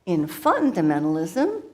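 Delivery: lightly voiced chatty mother guru; Guru Maya Yo Mama. Comedian's alter ego addresses the audience as a playful mother guru. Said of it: "she will take it from here".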